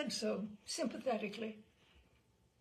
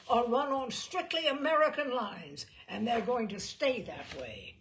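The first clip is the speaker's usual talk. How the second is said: louder proud declaration; proud gangster; 2 semitones higher, 6 dB louder than usual. Retold or imitated. Gangster boasting to the reporter, louder and firm. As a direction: state it like company policy. Gangster proclaiming about his rackets.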